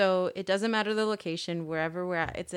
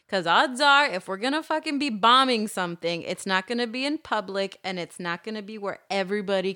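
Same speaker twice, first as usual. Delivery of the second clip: mock indignant retort; 5 dB louder than usual. Retort to suspicious parent, acted.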